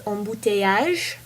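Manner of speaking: embouteillage said as a French word; French pronunciation. Shown as a demonstration. Teaching a friend a French word, embouteillage in French pronunciation. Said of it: "the word I'm gonna teach you in French is".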